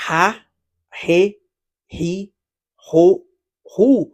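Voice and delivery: "ha, he, hi, ho, hou" with a breathy H for Portuguese R; "ha" sounded as an English H, not R. Shown as a demonstration. Teacher shows one way to say Portuguese R, breathy H. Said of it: "Ou ka di".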